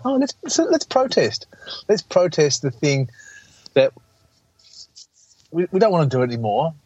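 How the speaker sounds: high, whiny mock protester voice. Melbourne guy mocking lockdown protesters, high mocking whine. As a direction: sneer it up high like a silly protester. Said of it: "have all been".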